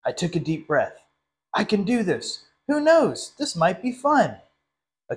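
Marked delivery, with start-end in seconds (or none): 1.5-4.4 higher, rising hopeful lines; nervous self pep talk. Acted. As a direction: build yourself up to be brave. Turkey psyches himself up.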